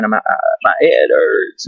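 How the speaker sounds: slow, tearful mock whimper; whiny complaint. Patient to the nurse, a slow mock whimper. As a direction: drag it out like a pitiful patient. Telling the nurse his pain.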